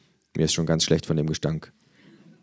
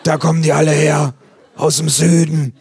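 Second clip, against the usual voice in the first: nosy neighbour; 10 semitones higher, 9 dB louder than usual. Acted. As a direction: squawk like a gossiping neighbour. Neighbour voiced in story.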